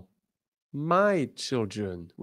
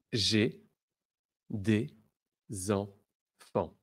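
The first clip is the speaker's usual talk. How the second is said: slow model phrase; 3 semitones lower, much slower than usual. Shown as a demonstration. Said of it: "Repeat after me".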